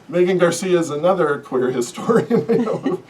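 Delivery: laughing through an apology. Real, not acted. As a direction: chuckle at your own slip. Laughing at own name mix-up.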